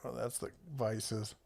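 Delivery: whispering. Real, not acted. Muttering to self while browsing.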